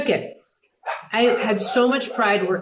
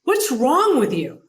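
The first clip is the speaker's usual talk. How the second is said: higher, drawn-out indignant whine; John McEnroe; 5 semitones higher, 3 dB louder, slower than usual. Retold or imitated. McEnroe berating the producer after a match, exasperated. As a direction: imitate an exasperated tennis star. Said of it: "you can hear that tone of John".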